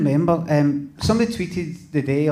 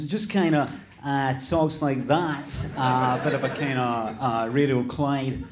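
lightly voiced Radio Clyde presenter, lower; a hint of local radio presenter, pitched low; Benjamin voice; 3 semitones lower, 4 dB quieter, slower than usual. Shown as a demonstration. Comedian demonstrating his podcast character for the audience, lightly voiced presenter. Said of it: "do your Benjamin voice for the podcast".

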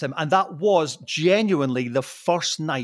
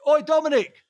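retold calling out; 10 semitones higher than usual. Celebrity calls back from the corner, retold hailing shout. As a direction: hail someone from down the road.

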